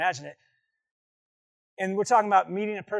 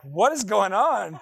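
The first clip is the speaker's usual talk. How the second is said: alarmed father; 6 dB louder, slower than usual. Retold or imitated. Father rushes in after scream.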